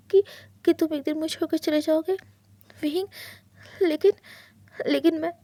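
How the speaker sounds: hushed, hurt husband begging for an answer; husband begging his partner not to leave; pleading husband. Acted. Wang's pleading lines.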